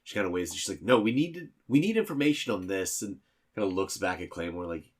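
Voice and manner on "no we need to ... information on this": high and loud, pushing hard; insistent demand. Acted. Anagram presses the old receptionist for information, loud and insistent.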